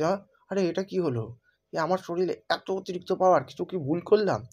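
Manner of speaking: alarmed. Acted. Power surging, alarmed.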